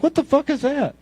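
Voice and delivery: high-pitched incredulous question; retold startled double take; baffled surprise. Acts own surprise at his car.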